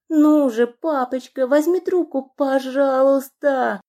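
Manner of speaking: high, loud, frantic begging into the phone; desperate plea. Acted. Lana terrified, begging her father to pick up. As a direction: beg as if your life depends on it.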